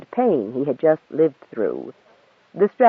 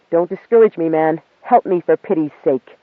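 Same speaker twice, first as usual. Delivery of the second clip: pleading; 3 semitones higher, 4 dB louder than usual. Acted. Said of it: "with one more plea".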